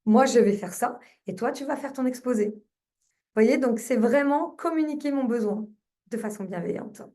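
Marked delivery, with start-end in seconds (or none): 0.1-2.5 kindly, supportive. Retold or imitated. Mother answers her son about his school presentation, kindly. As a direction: gently agree to the child's plan. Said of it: "j'ai communiqué avec lui de façon bienveillante".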